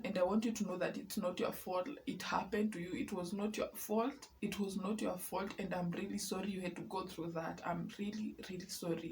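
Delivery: soft, gentle comfort for listeners; sincere reassurance. Real, not acted. Vlogger comforts survivors, soft and sincere. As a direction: let them know it is not their fault.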